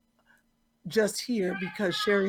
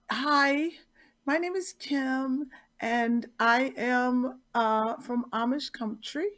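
odd voice; slower than usual. Pretend. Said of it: "I don't know why I'm doing that".

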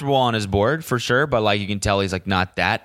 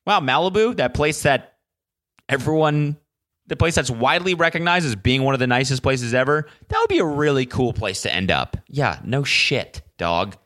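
higher-pitched mock amazement; sarcastic self-mockery; 5 semitones higher than usual. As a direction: feign wonder at something painfully obvious. Mocks his own obvious remark.

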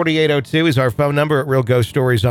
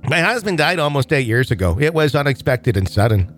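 Minnesotan accent; 2 semitones higher than usual. Shown as a demonstration. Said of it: "Okay, I'll go back to normal".

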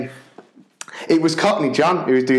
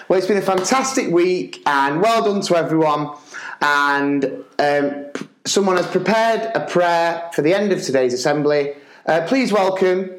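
lightly put-on school presenter, pitched up; assembly host; 4 semitones higher than usual. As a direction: introduce someone to the hall. Acting out assembly introduction.

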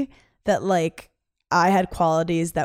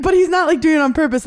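high, loud laughing squeal; delighted laughing retelling; giddy laughing disbelief; 9 semitones higher, 6 dB louder, faster than usual. Retold or imitated. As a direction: squeal it through laughter, thrilled.

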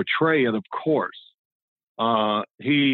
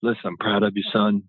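imitated coach, lower confiding voice; coach's private warning; 4 semitones lower than usual. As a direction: take the player aside, voice dropped. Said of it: "he would warn me before practice".

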